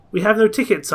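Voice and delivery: acted exclamation in a story; exclaiming. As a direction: exclaim it to your master in protest. Servant exclaims to master in story.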